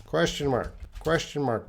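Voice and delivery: "Question mark" stressed, said twice in a row; emphatic reminder. Shown as a demonstration. Teacher insists to Mahdi on the question mark with emphasis. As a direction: hammer home "Question mark". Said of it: "you need a question mark".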